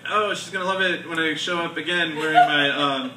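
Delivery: giggling through his own quoted thought; laughing while quoting himself. Retold or imitated. Comic telling himself how she'll love it, laughing. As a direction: laugh through the words as you retell it. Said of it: "and I'm like".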